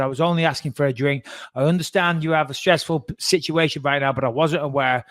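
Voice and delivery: even, reasonable explanation; calm. Retold or imitated. Passenger explaining himself to air hostess, calm and reasonable. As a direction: explain it without any heat. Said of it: "I said it very calmly".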